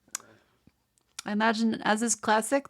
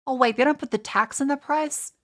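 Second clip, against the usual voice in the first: higher, outraged disbelief; indignant surprise; 4 semitones higher, 3 dB louder than usual. Real, not acted. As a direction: catch the hidden tax in disbelief. Discovers hidden tax, indignant.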